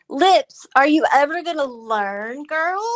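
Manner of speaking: loud taunting call to Lips; mocking call-out. Real, not acted. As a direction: call her out, teasing and loud. Taunting the rival by name.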